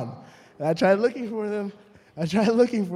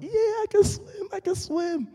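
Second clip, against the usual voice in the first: much higher mock-cocky voice; mock proud boast. To faraway friends, a high-pitched mock brag. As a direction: show off to the friends on the shore in a high squeaky brag.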